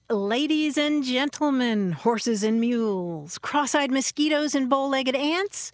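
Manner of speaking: stretched-out pompous patter; mock orator. Reciting old doggerel as show opener.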